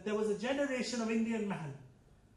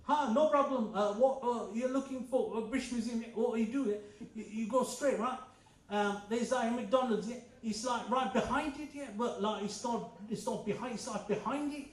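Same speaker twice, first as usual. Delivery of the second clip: put-on young Londoner. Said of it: "young English person says".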